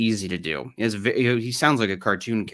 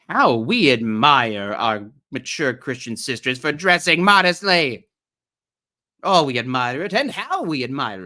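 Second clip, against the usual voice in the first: hammed-up admiration; 3 semitones higher, 5 dB louder than usual. Hammed-up reading of article praise.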